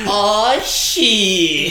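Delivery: hammed-up movie yell; yelled movie quote. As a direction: yell it like a hammy action-film line, stretching both words. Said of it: "he just yells".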